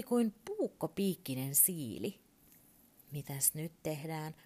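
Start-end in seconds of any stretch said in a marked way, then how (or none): 3.1-4.3 worried. Acted. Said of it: "Urpo kysyi huolestuneena".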